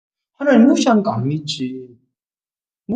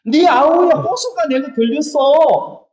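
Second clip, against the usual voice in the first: slow God's voice; 7 semitones higher, slower than usual. Retold or imitated. God accusing Cain.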